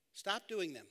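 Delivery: dry mock-simple advice; deadpan sarcastic. Shown as a demonstration. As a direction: stop doing them said quiet and flat as too-simple advice. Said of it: "I was being sarcastic".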